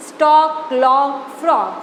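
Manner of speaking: સ્ટોક, લોક, ફ્રોગ said one by one, same rhyming ending; rhyming word demo. Shown as a demonstration. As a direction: model the shared rhyme in સ્ટોક, લોક, ફ્રોગ. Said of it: "જુઓ, બોલો ફરીથી". (સ્ટોક, લોક, ફ્રોગનો સરખો પ્રાસવાળો ઉચ્ચાર)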